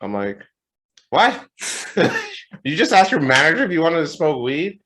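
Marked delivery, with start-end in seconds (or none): 1.1-2.1 high, loud mock shock; retold stunned yelp; incredulous. Retold shock at employee's offer. 2.7-4.8 loud, high-pitched disbelief; incredulous raised-pitch question; mock outrage. Manager retelling shock at offer.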